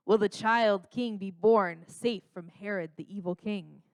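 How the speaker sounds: dramatic trailer narrator voice; lightly voiced epic trailer announcer; movie trailer voice. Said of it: "it's that movie trailer guy's voice".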